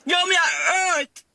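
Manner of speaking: real tearful sobbing, pitch pushed up; words dragged out slowly through tears; crying. Real, not acted. Mother struggling to describe her pain, weeping.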